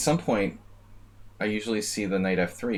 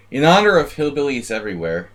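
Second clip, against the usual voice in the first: hammy toast; 6 semitones higher, 9 dB louder than usual. Acted. Jokey toast to hillbillies.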